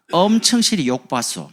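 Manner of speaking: slow, loud Jeolla delivery; 전라도 사투리로 크게; Jeolla dialect. Shown as a demonstration. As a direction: drawl it broadly, Jeolla style. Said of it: "고생 많이 하셨습니다".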